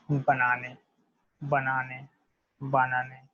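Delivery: banane said as "ba-nah-neh", each syllable clear; French banane drill. Shown as a demonstration. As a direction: repeat banane carefully, teacher modelling. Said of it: "Just like this".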